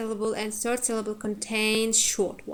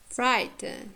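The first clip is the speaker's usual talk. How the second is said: "frighten" said FRIGHT-en; strong FRIGHT, weak schwa ending in "frighten"; first-syllable stress; 2 semitones higher than usual. Shown as a demonstration. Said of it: "You see the difference?".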